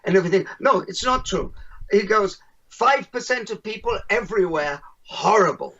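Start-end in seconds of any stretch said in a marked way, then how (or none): 0.6-1.5 put-on higher-pitched German accent; lightly imitated German objector. German man insists to the keynote speaker, in a German accent. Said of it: "excuse my German accent". 2.7-5.7 lightly imitated German accent. German man argues with the keynote speaker, in a light German accent. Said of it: "excuse my German accent".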